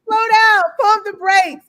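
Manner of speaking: high excited agreement. Real, not acted. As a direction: echo it high and eager. Playful high reply.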